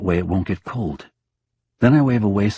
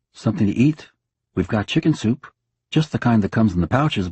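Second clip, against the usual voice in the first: bright husband chatter; 3 semitones higher than usual. Acted. Husband coaxing dead wife.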